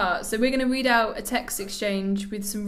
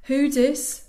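louder, raised mock-Birmingham query; attempted Birmingham accent; 4 semitones higher, 5 dB louder than usual. Replying to an unknown number, attempted Birmingham accent. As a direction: answer as a Birmingham texter.

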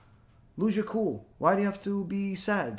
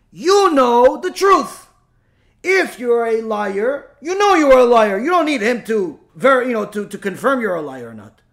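emphatic preaching; 3 semitones higher, 8 dB louder than usual. Acted. Rabbi telling listeners insults shouldn't move them, preaching emphatically. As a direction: drive the point home from the pulpit.

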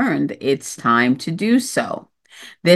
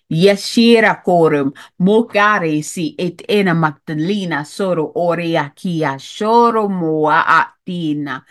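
channeled light language. Acted. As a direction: intone the syllables like channeling.

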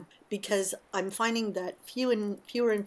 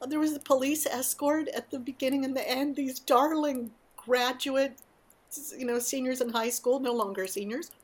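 fighting back happy tears; choked up; 5 semitones higher than usual. Real, not acted. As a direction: voice rising high, on the edge of tears. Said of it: "I get emotional".

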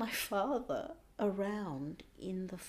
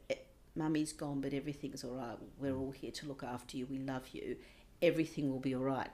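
reassuring; 5 semitones lower, faster than usual. Pretend. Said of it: "A child needs to hear".

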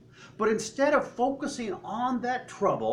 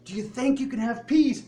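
raised, loud crowd-rousing question; rallying call; 6 semitones higher, 5 dB louder than usual. Acted. Preacher rousing a cheering crowd about peace, rallying. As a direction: pump up the crowd. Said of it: "We hear the cheering".

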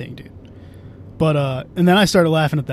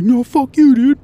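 mock angry outburst, higher and louder; angry retort; 9 semitones higher, 6 dB louder, slower than usual. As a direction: replay an angry comeback from a fight. Acting out their quarrel from memory.

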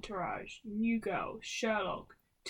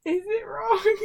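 high, loud repeat of the question; insistent question; 10 semitones higher, 10 dB louder than usual. Real, not acted. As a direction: push it up high, nearly laughing.

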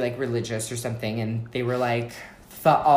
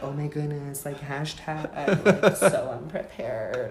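slow mock gush; 2 semitones higher, slower than usual. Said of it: "And I was like".

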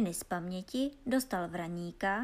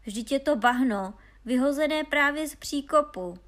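loud, raised outburst of disgust; indignant storybook exclamation; exclaiming; 4 semitones higher, 7 dB louder than usual. A narrator's reading. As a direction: cry out at the worthless find. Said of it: "zvolali bratři".

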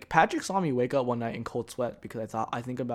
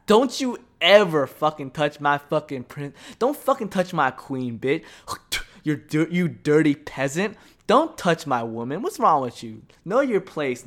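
hammed-up furious threat, louder; mock royal threat; 4 dB louder than usual. To a girl who hurts his girlfriend, loud mock fury. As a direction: snarl it like a guard defending his queen.

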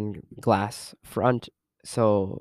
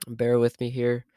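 sick, stuffy-nosed voice; talking through a cold, short of breath; stuffy nose. Real, not acted. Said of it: "If I sound a little off, it's because I am sick".

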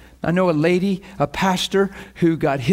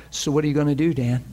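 God's voice; 3 semitones lower, faster than usual. Retold or imitated. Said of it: "I'd always hear this".

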